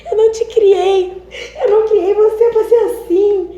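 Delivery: high, loud wailing imitation with laughter; hammed-up tearful wail, laughing through it; mock crying mother. Mother crying over daughter coming out, mock wailing. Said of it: "Ela chorava".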